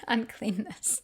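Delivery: laughing, slowed repeat of "Uncleanness"; chuckling at the word "Uncleanness"; amused echo. Shown as a demonstration. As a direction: savour "Uncleanness" slowly with a chuckle.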